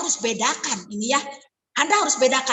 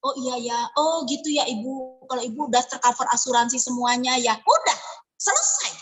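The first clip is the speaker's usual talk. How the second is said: giving up; 4 semitones lower than usual. Retold or imitated. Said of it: "Anda jadi".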